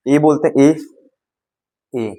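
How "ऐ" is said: ए said as an open "ae", not "ay"; phonic sound of A. Shown as a demonstration. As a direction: say the letter sound of ए as a short open "a" as in apple. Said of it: "ए का sound होता है".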